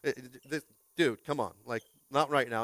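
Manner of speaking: a hint of embarrassed mumbling; lightly voiced embarrassed star dodging the camera; embarrassed Leonardo DiCaprio. Pastor imitating Leonardo DiCaprio on the Jumbotron, mildly embarrassed. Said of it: "Leonardo DiCaprio's like".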